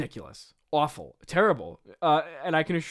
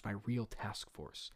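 much lower, softer, slower; hushed, drawn-out villain afterthought; low repeat; 6 semitones lower, 13 dB quieter, slower than usual. Acted. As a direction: sink into a quiet, slow aside. Same words repeated low, as aside.

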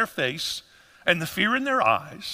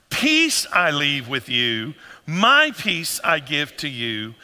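leading the congregation loud and slow; loud and enthusiastic; 4 semitones lower, slower than usual. Shown as a demonstration. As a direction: lift the verse loud and slow for all to join. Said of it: "let's say it loud".

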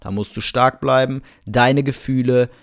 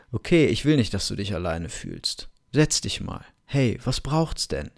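tender reassuring; 3 semitones lower, 5 dB quieter than usual. Shown as a demonstration. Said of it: "sagst du".

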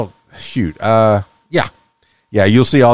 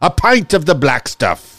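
mock Irish accent; 4 semitones higher than usual. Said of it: "Now I'm starting to sound like a pirate".

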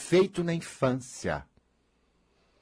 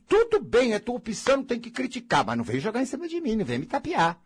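retold own advice; 6 semitones higher than usual. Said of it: "Porque eu digo".

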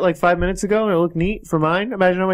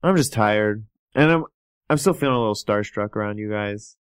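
low, subdued fan character; low-pitched, weary admirer in game; starstruck, tired fan; 8 semitones lower, 3 dB quieter than usual. Acted. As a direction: sound tired and a little starstruck.

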